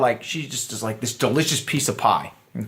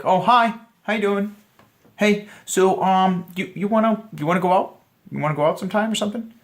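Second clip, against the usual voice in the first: higher, rushed, nervous asking out; nervous, creepy; 6 semitones higher than usual. Shown as a demonstration. Coach demoing the creepy nervous approach, higher and rushed. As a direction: squeak it out like a jittery guy. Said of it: "Or if you're like".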